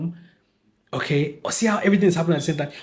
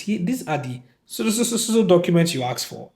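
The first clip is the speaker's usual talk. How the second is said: stammering over the blank word; mock generic line; 3 semitones higher than usual. Secretary parroting a generic line, stammering. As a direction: mimic a vague secretary, tripping on so. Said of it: "Let's hear the specific documents".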